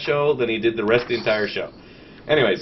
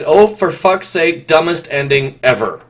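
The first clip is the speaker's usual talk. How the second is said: mock exasperation; 6 dB louder than usual. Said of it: "and then I said".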